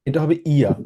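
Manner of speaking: teacher models ইয়া for the student; model pronunciation. Shown as a demonstration. Teacher corrects a student's pronunciation of ইয়া. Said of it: "উচ্চারণটা একটু".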